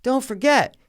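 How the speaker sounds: put-on high, sweet girlish voice; mock a chirpy daughter reminding her dad; imitated daughter. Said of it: "she's like".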